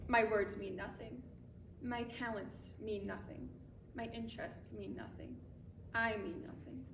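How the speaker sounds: fading litany. Acted. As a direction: let each line sink.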